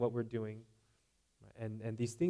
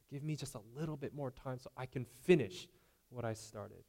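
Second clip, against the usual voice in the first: softer, quieter take of the same casual prayer; softer repeat; 5 dB quieter than usual. Retold or imitated. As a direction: pull it back and ask again quietly. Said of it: "Do they sound like this?".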